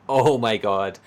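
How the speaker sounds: hammed-up wail of suffering, loud at the start then fading; mock a pampered toff moaning about the gulag; mock melodramatic whine. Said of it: "it's just like".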